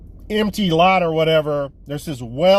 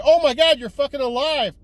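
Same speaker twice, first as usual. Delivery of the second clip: much higher, startled outburst; shocked gasp; 7 semitones higher than usual. Retold or imitated. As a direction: blurt it out in sudden horror. Guy retold, shocked she lives.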